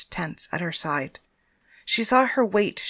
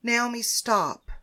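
order; 4 semitones higher, slower than usual. Acted. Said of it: "ordered Penthesilea".

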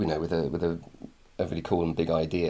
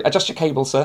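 mildly mocking, higher and louder; sarcastic; 7 semitones higher, 5 dB louder than usual. Imitating an annoying IT guy talking down to his boss, sarcastic. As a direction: put a touch of sarcasm on the sir. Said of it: "it was a sarcastic sir".

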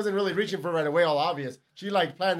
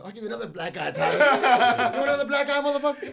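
mock tough girl; 4 semitones higher than usual. Friend mimics girl's threat.

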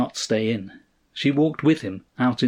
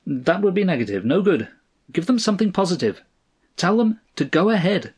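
pleasantly firm, higher-pitched counsel; pleasant advice; 7 semitones higher, faster than usual. A narrator's reading. Friend advising Stanley what to tell them, pleasant. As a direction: advise him lightly, pitched up. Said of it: "advised Cross, pleasantly enough".

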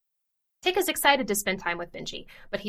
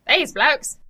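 louder, higher, bad Australian accent; exaggerated Australian accent; 6 semitones higher, 7 dB louder than usual. Shown as a demonstration. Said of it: "That's worse. That's way worse".

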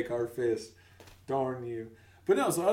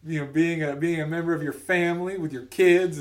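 higher, louder, needling tone; mock pushy questioning; 6 semitones higher, 9 dB louder than usual. Coworkers quizzing him on his return, mock pushy teasing. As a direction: press him like a nosy coworker. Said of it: "aggressively asking me these questions".

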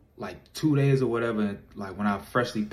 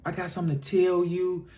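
higher, soft guilty confession in her voice; imitating a sorry girlfriend, higher and hushed; apologetic girlfriend; 6 semitones higher, 3 dB quieter than usual. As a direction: play the remorseful girlfriend, slowing at the end. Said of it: "she like".

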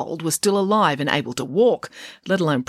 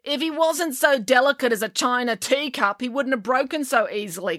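higher-voiced, mild grumble; grumbling; 8 semitones higher than usual. A narrator's reading. Girl justifying herself to the coach, mild grumble. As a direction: grumble back in a girlish pitch. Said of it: "grumbled April".

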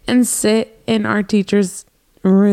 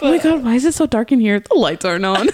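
stoner; faster than usual. Pretend. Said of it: "I'm high right now".

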